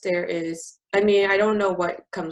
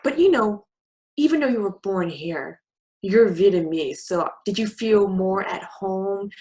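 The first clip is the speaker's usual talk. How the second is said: pushy landlady; 3 semitones higher, 6 dB louder than usual. Retold or imitated. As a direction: press the point like a condescending landlady. Imitating the landlady pressing on.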